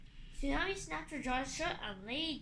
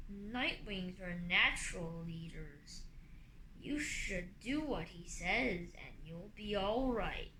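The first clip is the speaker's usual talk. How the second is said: lower, slow dragon voice; rumbling dragon; 5 semitones lower, slower than usual. Acted. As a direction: speak like a big imposing dragon. Morosia character voice.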